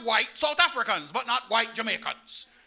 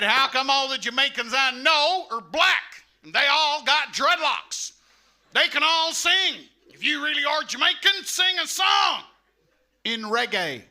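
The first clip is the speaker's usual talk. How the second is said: loud, slow, higher mock redneck; 4 semitones higher, 4 dB louder, slower than usual. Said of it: "He said".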